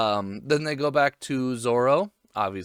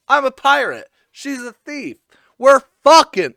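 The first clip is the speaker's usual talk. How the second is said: high, gleeful retold proclamation; loud mock blurting; 12 semitones higher, 13 dB louder than usual. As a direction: blurt the secret to a crowd.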